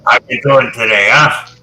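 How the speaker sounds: side-of-the-mouth talk, lightly put on; Prime Minister Chrétien. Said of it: "used to talk out of the side of his face".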